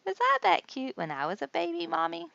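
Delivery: high, eager Grover question; Grover's voice. A narrator's reading. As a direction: ask Mommy like an eager little Grover. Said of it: "Grover's mother said".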